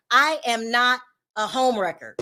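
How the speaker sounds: "I am not" set apart, said firmly; stressed denial. Retold or imitated. Vlogger quoting the woman's denial to viewers, stressed. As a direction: spell out "I am not" with firm emphasis. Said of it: "she kept stressing that".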